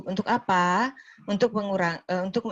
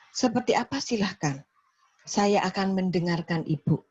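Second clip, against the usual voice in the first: calm low intonation. Shown as a demonstration. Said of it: "intonasi rendah".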